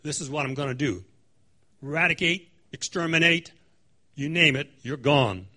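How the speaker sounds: loud sweeping threat; threatening. Acted. Preacher voicing God's threat of extermination, loud. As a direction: wipe them all out with your voice. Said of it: "God says".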